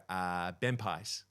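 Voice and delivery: lightly voiced small child, drawn out; slow, hesitant toddler answer, lightly imitated; little daughter. Dad retells his three-year-old's answer, lightly voiced little daughter. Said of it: "I imitated my kids when they were really little".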